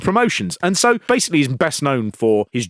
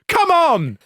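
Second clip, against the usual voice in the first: mock taunt. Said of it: "And Mark Starr goes".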